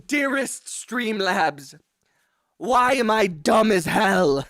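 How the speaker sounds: slow, hammed-up letter-reading voice; mock formal letter. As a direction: recite it like a fancy handwritten note. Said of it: "in cursive".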